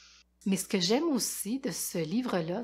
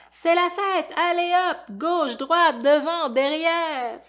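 excited; 9 semitones higher, 8 dB louder, slower than usual. Acted. Party cry of the kids.

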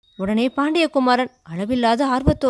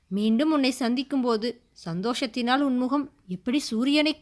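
lightly voiced earnest prince asking; gently probing lover; lightly voiced questioning prince; prince's voice; 2 semitones higher than usual. Prince questions weeping maiden.

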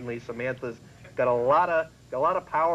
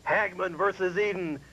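imitating a slow, raised promo voice; TV ad announcer; 4 semitones higher, slower than usual. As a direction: draw it out like a teaser for a TV showdown. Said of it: "the ads for it was like".

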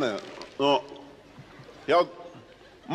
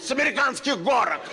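higher, altered dazed voice; dazed driver voice; 7 semitones higher than usual. Acted. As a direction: answer like a stunned driver. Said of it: "Он говорит".

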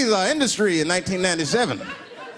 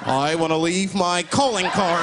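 scheming burglar; slower than usual. Acted. Acted burglar, slow announcement.

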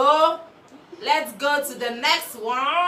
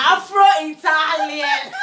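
YouTuber intro imitation; 3 semitones higher, 5 dB louder, much slower than usual.

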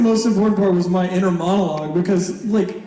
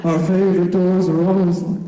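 spoken like a monologue; 3 semitones lower than usual. Retold or imitated. Bandmate imitating singer speaking the lyric as monologue. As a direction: talk the lyric instead of singing it, dramatic and spoken. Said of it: "real monologue-y, speaks".

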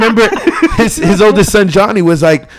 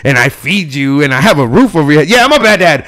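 nonchalant dad; 4 semitones lower than usual. Retold or imitated. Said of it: "But very nonchalant".

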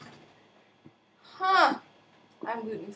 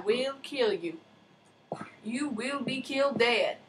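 menacing whisper; 3 dB quieter than usual. Pretend. Threatening the pig.

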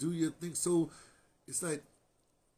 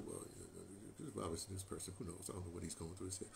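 quietly brushing it off, softer and lower; mock calm reply; 6 semitones lower, 13 dB quieter than usual. Telling his partner in the car to let it go, hushed and low. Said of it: "I said".

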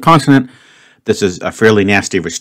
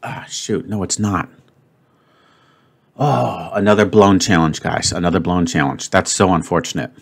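disappointed; 4 dB quieter than usual. Real, not acted. Guess fails, challenge blown.

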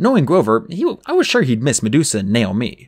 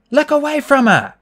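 high, loud urgent warning; Annabeth shouting; 5 dB louder than usual. A narrator's reading. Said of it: "Annabeth shouted".

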